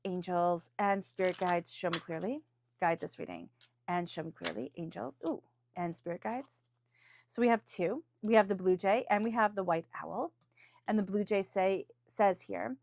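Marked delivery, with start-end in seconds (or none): 0.1-6.6 a gentle prayer asking for clarity; invocation. Acted. Invokes spirit guides in reading.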